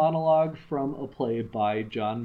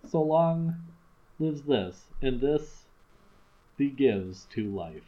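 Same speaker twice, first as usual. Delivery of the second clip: measured recitation of a sonnet; poem reading. Acted. Reading a Shakespeare sonnet to a friend, measured recitation. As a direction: read the sonnet out with care.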